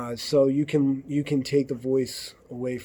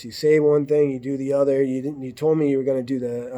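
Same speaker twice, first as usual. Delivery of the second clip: acted angry accusation; 4 dB louder, faster than usual. Partner blowing up over a missed car payment, angry and accusing. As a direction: snap back at your partner, building up steam.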